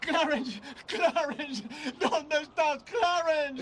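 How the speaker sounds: calling out. Acted. George calls out for his angel.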